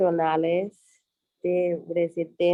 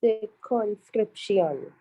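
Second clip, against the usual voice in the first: slow repeat; 3 semitones higher, slower than usual. Shown as a demonstration. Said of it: "Just say that first word for me again".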